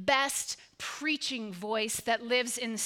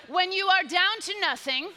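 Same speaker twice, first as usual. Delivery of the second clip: God is always up to something, belted much louder like a revival preacher; hammered-out preacher proclamation; full preaching voice; 2 semitones higher, 5 dB louder than usual. Shown as a demonstration. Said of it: "find your very best preaching voice".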